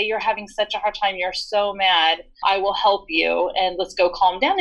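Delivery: name the feeling gently but firmly; calm, firm empathy. Retold or imitated. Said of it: "You would say".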